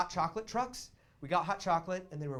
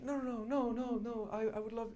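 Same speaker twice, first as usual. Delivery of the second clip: protesting date; 8 semitones higher than usual. Retold or imitated. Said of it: "She was like".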